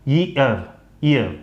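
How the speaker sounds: ईयर with an opening y, "yee-ar", repeated; correct pronunciation. Shown as a demonstration. Teacher correcting a learner's ee sound, correct pronunciation. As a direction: start each ईयर on y and let it fall. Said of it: "सही pronunciation इसका होगा".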